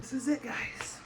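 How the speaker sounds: whispered final farewell; soft unvoiced goodbye; whispering. Real, not acted.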